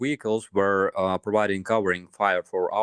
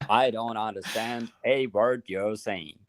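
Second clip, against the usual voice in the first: American impression. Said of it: "best impression of an American".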